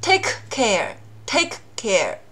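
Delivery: lost plosion demo; dropped k. Shown as a demonstration. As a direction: take care with the k of take unreleased, slowly. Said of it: "你看".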